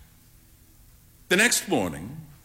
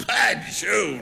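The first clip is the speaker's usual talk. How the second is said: exclaiming; 3 semitones higher than usual. Acted. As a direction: burst out with it. Amused friend exclaims.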